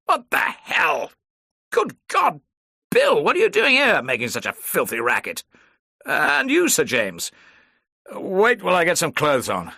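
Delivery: high, loud, startled exclamations; jolted awake and indignant; startled outburst. Acted. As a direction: caught half-dressed, startled and loud. Woken Bond startled by racket.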